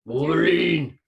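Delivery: loud high Wolverine call; excited shout. Real, not acted. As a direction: call it out like a cheer. Announcing mascot excitedly.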